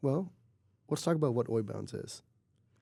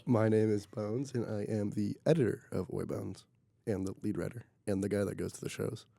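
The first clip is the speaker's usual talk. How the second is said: sick voice. Real, not acted. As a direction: talk through a sinus cold. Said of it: "You have the most A S M R voice right now".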